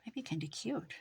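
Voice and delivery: soft whisper to herself. Real, not acted. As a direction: whisper it while crafting. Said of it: "whispered to herself".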